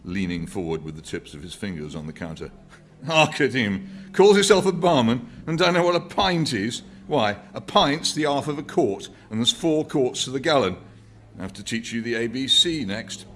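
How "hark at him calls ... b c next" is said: put-on high, loud, exasperated cockney old man; indignant old man. A narrator's reading. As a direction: lecture the barman in disbelief. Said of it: "old man scolds barman".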